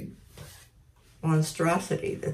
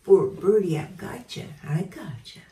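soothing the bird. Shown as a demonstration.

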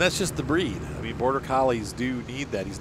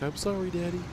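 dog voice; 9 semitones higher than usual. Retold or imitated. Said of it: "He's like".

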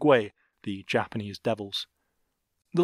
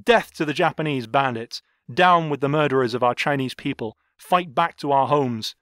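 a touch louder, impassioned rallying cry; understated voice shaking with emotion; emotional outcry; 3 semitones higher, 4 dB louder than usual. Acted. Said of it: "in a voice shaking with emotion cried out".

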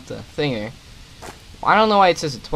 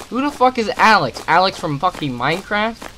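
incredulous; 5 semitones higher, 4 dB louder than usual. Real, not acted. Baffled by game note.

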